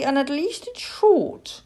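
encouraging, lifted tone; kindly. A narrator's reading. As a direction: offer a small comfort. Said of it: "the cat said kindly".

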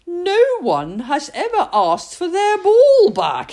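voiced old man, amazed; old man's voice. Old man muses to himself.

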